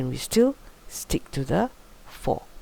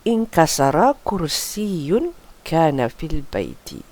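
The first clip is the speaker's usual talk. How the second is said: slow, careful Arabic sentence; slow model reading; slower than usual. Shown as a demonstration. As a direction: read it out slowly as an example. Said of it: "what do I mean by this?".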